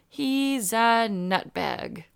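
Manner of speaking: slow, drawn-out Brad Pitt line; deadpan movie line, very slow; bad acting. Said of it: "delivered it like that too".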